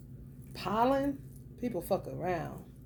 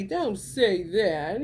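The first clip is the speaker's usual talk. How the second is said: drawn-out, louder hushing warning; slow scolding quote; 2 semitones higher, 6 dB louder, much slower than usual. Retold or imitated. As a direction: stretch it out like telling someone off. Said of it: "They say".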